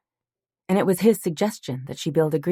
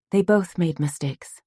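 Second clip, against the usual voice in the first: insisting; 2 semitones higher than usual. Acted. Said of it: "she insisted".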